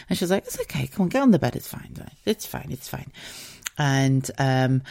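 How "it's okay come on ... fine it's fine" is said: soft, hushed reassurance; Margaret. Retold or imitated. Scanner calming a nervous patient, soft reassurance. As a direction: soothe a nervous patient quietly. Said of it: "a beautiful Jamaican woman".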